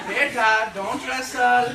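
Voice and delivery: high, loud, doting Desi mother with laughs; Desi mom. Retold or imitated. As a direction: spoil your boy, pleading tenderly. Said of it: "the Desi mom I wanted".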